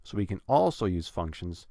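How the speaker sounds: "also" stressed, "functions" kept light. Shown as a demonstration. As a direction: lean on "also", ease off "functions". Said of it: "don't need to stress it as much".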